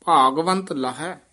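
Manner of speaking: ਭਾਗਵੰਤ with a full long aa in the first syllable, not ਭਗਵੰਤ; long a in Bhaagvant. Shown as a demonstration. Teacher correcting ਭਾਗਵੰਤ to a long aa. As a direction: stretch the ਭਾ of ਭਾਗਵੰਤ. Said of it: "ਇਹ ਭਗਵੰਤ ਨਹੀਂ ਕਹਿ ਦੇਣਾ".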